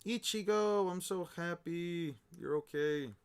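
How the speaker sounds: slow, happy gush; joyful relief. Acted. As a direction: voice an overjoyed reunion, lightly hammed-up. Acted joyful reunion in manga.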